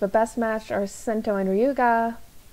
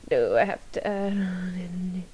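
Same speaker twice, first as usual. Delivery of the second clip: whispered aside. Real, not acted. Worried aside while setting up.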